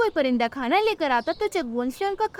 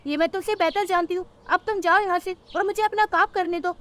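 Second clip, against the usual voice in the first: higher cartoon voices, dismissive crow mother; two bird mothers arguing; 5 semitones higher than usual. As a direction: brush off the worried sparrow. (दो माँओं की बहस)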